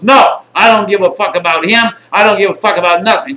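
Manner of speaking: loud, high, defiant shout; acted angry refusal. Packer defies the friend at the window, acted angry shout. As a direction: shout back and refuse to budge.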